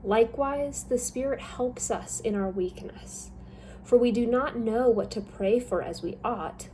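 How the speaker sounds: ordinary talk, nothing marked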